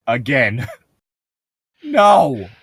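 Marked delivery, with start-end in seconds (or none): 1.8-2.5 sharp high yell. Acted. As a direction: yell no in alarm. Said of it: "I yell".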